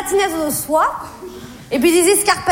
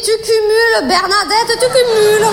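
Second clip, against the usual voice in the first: higher, rising to louder; exasperated self-scolding; 5 semitones higher, 4 dB louder than usual. Retold or imitated. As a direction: scold yourself in a raised, higher voice. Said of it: "Je me suis dit". (se gronder d'une voix haute, exaspérée)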